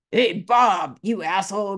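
a sudden loud yell at Bob; mock screaming. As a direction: bark it out like calling across the room, rude. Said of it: "Are you screaming at them".

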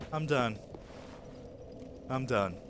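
low, subdued and drained; collecting himself. Real, not acted. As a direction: pull yourself back to calm after raging. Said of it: "now going to collect our thoughts".

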